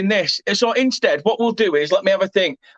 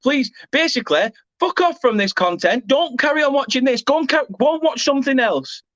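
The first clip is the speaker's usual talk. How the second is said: mocking the viewers; 4 semitones higher than usual. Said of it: "just come in and go".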